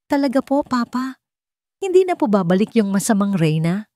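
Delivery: put-on hopeful child. Young son asks his father.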